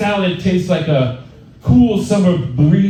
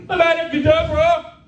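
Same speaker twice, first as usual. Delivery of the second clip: spell shout; 12 semitones higher than usual. Pretend. Mock spell cast at roast.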